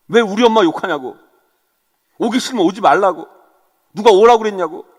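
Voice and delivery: hammed-up defensive outburst; acted angry retort. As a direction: fire back like an offended husband. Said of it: "서로 폭발하는 거예요".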